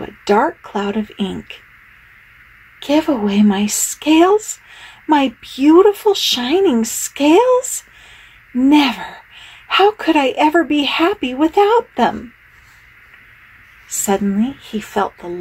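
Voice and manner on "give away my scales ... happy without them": high, indignant proud fish; indignant refusal. Acted. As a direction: refuse with wounded pride.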